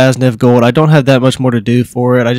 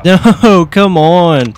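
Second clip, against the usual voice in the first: frustrated; 5 semitones higher, 4 dB louder, much slower than usual. Real, not acted. Dies in a gunfight.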